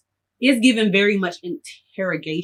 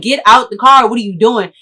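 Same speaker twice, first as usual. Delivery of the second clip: yelling; 2 semitones higher, 7 dB louder than usual. Retold or imitated. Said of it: "I'm like".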